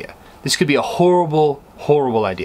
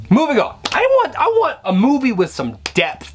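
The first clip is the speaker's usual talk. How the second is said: mock exasperation; 12 semitones higher than usual. Real, not acted. Abandons the failed movie act.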